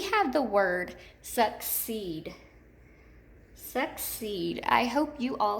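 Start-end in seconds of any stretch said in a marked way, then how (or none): 1.2-2.3 "succeed" slowly split, long E in "ceed"; stressed second syllable. Shown as a demonstration. Teacher introducing the word, "succeed" slowly stressed on the second syllable. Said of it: "accented in the second syllable". 3.6-4.6 "succeed" softly split, long E in "ceed"; stressed second syllable. Shown as a demonstration. Teacher repeating the word, "succeed" softly stressed on the second syllable. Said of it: "accented in the second syllable".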